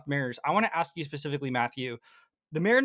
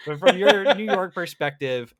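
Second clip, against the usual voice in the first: slow, louder mock New York accent; a clumsy New York voice played for laughs; bad New York accent; 3 semitones higher, 7 dB louder than usual. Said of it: "What was that?".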